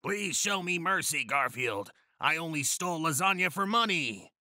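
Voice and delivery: high-pitched, put-on pleading villain; begging. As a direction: beg for mercy in a hammed-up high voice. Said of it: "begged the Blue Sun's leader".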